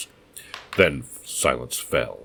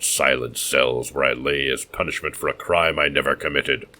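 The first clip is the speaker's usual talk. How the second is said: bitter madman. Acted. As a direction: show your scars with bitter pride.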